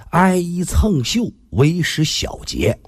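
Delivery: put-on each syllable drawn out like an old proverb; a measured, old-fashioned recitation; slow recited saying. Shown as a demonstration. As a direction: recite it slowly and deliberately.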